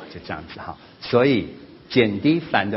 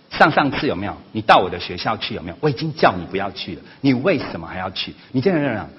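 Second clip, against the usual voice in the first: louder, pressing accusations; nagging complaints; 2 semitones higher, 5 dB louder than usual. Retold or imitated. Son reproaches his mother about the school visit, loud and insistent. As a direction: keep hammering her with questions.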